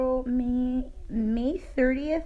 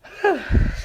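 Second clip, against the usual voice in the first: sneezing; 8 semitones higher, 4 dB louder than usual. Real, not acted. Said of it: "I'm gonna sneeze".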